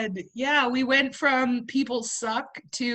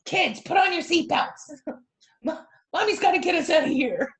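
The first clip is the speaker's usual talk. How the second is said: alien mom yelling; 4 semitones higher than usual. Acted. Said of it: "alien mom yelling".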